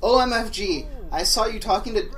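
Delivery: put-on excited girl. Excited quote.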